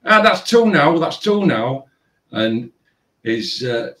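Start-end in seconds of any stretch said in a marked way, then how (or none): 0.0-1.9 put-on taunting boyfriend. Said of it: "he's laughing at her and he's going".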